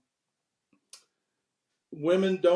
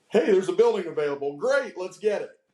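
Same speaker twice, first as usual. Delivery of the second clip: mock-eager quick pitch, a touch louder; eager impulse; 2 semitones higher, 4 dB louder than usual. Telling on his own rash business deals, mock-eager. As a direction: jump at it with mock excitement.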